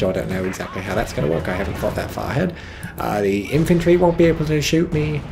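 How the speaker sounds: playful British player voice; hammed-up British accent; put-on British accent. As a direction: muse cheerfully in a mock British accent. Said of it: "elaborating in my amazing British accent".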